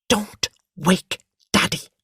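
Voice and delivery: hushed but cross warning; angrily hushed "Don't wake Daddy"; angry whisper. A narrator's reading. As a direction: hiss it out angrily under the breath. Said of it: "she whispered angrily".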